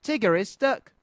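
put-on high-pitched child's call. A narrator's reading. Roo tells friends below about Tigger, high calling. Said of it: "called Roo".

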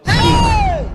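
very high, loud, held shriek; outraged scream. Acted. Madam reacts to the house help's refusal, outraged scream. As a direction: scream it out on one long note.

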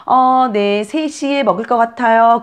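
high, obliging sing-song answer; reply helpfully in a high lilt; nursery nurse replying. Pretend. Nurse telling a mother the feeding time, high helpful reply. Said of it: "그러면 선생님 몇 시에".

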